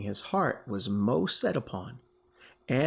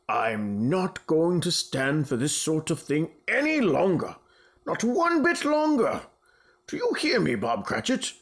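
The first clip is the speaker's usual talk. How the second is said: mock scolding. Scrooge mock scolding building.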